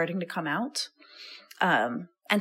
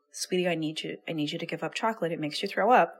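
gentle wise voice; faster than usual. Retold or imitated. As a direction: coax it like a loving grandmother. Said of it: "The wise voice can be like".

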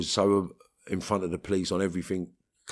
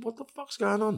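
angry. Retold or imitated. Yelling at screws from cell.

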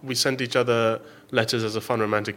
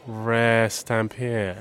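very slow, sly would-be thief; sneaky thief voice; 2 semitones lower, much slower than usual. Acted. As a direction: drawl it out like a scheming thief. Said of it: "I'm making a voice like I'm going to steal it".

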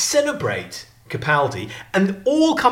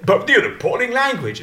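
higher-pitched mock disapproval; pompous barrister; 6 semitones higher than usual. Pompous barrister challenging the adviser on his language, mildly affronted. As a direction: lightly act the affronted lawyer. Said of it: "one of these pompous barristers".

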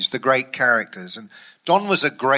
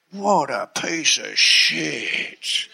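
slow, laughing scorn; laughing mock disdain; much slower than usual. Don mocking the writer's tight jacket, slow laughing scorn. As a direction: sneer at the jacket through a laugh.

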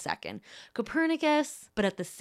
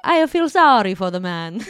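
put-on Russian-ish accent; 9 dB louder than usual. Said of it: "like Jennifer Lawrence in Red Sparrow".

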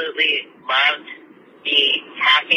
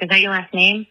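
put-on a light East Coast accent on the examiner's question. Retelling the driving examiner's question, with a mild East Coast accent. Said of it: "giving this man an East Coast accent".

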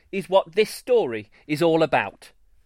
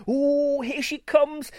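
high, tender coo over a newborn; 11 semitones higher than usual. A narrator's reading. Father cooing over his newborn foal. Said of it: "Mister Rainbow cooed".

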